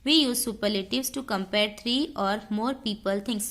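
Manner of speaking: slow, deliberate dictation read. Shown as a demonstration. Teacher dictating the rule slowly to students. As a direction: read each word out slowly for notes.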